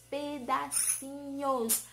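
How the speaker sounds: PEDACINHOS slowly split pe-da-ci-nhos; syllable by syllable. Shown as a demonstration. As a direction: sound out "pedacinhos" piece by piece. Teacher splits word into its pieces.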